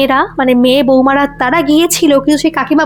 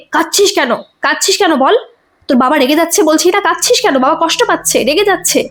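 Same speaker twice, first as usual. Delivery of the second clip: a touch of angry scolding, somewhat higher; angry mother; 3 semitones higher than usual. Acted. Grieving mother scolding her crying daughter, mildly angry. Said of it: "রেগে বলে".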